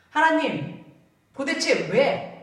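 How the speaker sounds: mock resentful cry at God, the why drawn out slow; resentful outcry. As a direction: hurl the question at God with grievance. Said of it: "하나님한테 왜를 찍어붙이는 거예요".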